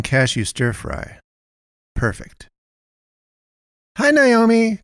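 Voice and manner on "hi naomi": much higher, bright chirped greeting; chirpy Melinda. Acted. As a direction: chirp it like a cheery shopkeeper. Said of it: "chirped Melinda".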